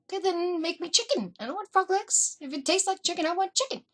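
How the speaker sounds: high, insistent demand; insistent protest. Retold or imitated. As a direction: push back hard for chicken. Retold insistence to mom.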